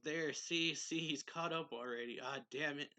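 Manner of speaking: alarmed cry. Retold or imitated. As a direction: sound the alarm, half-acted. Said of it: "Mika's like".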